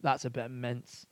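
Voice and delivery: amateur Scottish, a little subdued; imitated Scottish accent. Scots judging a zero percent beer, imitated Scottish accent. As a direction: mimic a local Scot's verdict. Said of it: "they were like".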